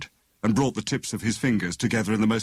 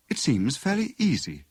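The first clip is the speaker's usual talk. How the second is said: withering; 7 semitones higher than usual. A narrator's reading. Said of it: "she remarked witheringly".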